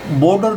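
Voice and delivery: बॉर्डर with a full O, "bo-dar"; बॉर्डर, first vowel rounded to a long O. Shown as a demonstration. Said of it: "ओ की मात्रा नहीं पढ़ेंगे".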